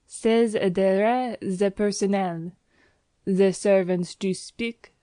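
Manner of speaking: put-on French-accented landlady. Landlady chattering at her new lodgers in French-accented English. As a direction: gush on like a Parisian landlady.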